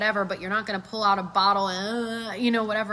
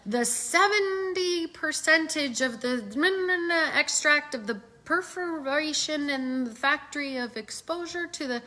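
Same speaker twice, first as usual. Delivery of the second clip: higher, droning mock expert; rambling jargon; 5 semitones higher, 3 dB quieter than usual. Mocking a post full of dull information, higher and droning. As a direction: parody a boring technical pitch. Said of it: "If you're like".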